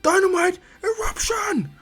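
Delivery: loud, high, slow battle scream; drawn-out anime finishing-move yell; ultimate attack cry. Acted. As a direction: stretch out the special move at full force. Fighter screams his ultimate move.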